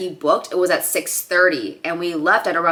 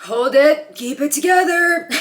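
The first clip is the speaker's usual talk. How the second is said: self-talk; 7 semitones higher, 3 dB louder than usual. Real, not acted. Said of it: "You're not gonna cry right now".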